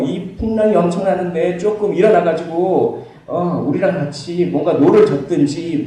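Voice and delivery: starts high and loud, fades to a nagging grumble; grumbling complaint. Retold or imitated. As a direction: nag the master, cooling down as you go. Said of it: "이건 엄청난 불평으로".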